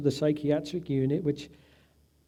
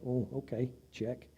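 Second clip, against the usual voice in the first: dismissive; 3 semitones lower, 11 dB quieter than usual. Retold or imitated. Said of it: "they're like".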